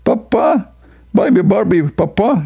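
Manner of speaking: put-on very high pleading little girl. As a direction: beg like a small daughter wanting a toy. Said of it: "she will say to you".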